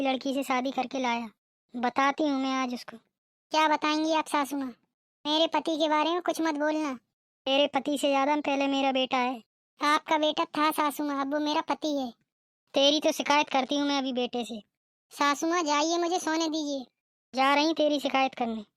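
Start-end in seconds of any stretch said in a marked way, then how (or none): 3.0-6.9 mocking bride. Bride challenges. 9.8-12.1 taunting bride. Acted. 15.1-16.8 waving her off; dismissive bride. Acted.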